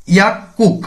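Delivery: ইয়াকুক with the second syllable starting on a hard k; tense k pronunciation. Shown as a demonstration. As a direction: say ইয়াকুক, giyok turned to a tense k. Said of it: "উচ্চারণটি হবে ইয়াকুক".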